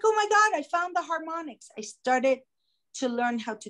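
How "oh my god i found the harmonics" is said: thrilled. Retold or imitated. Discovering the harmonics, thrilled.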